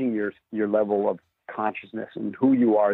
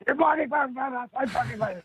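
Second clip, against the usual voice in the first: high-pitched mock outrage, imitating an angry board member; irritated neighbour; 14 semitones higher than usual. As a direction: squeak out the complaint like a petty neighbour. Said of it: "and he's like".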